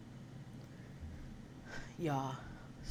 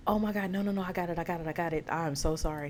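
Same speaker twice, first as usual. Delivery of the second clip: flustered apology; 2 semitones higher, faster than usual. Retold or imitated. Declining a stranger's offer to pay, flustered apology. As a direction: wave off the help, acting flustered.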